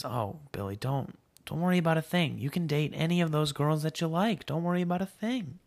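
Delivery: a hint of a reassuring mother; amused mother. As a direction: brush it off in a mock motherly lilt. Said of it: "then begins to laugh".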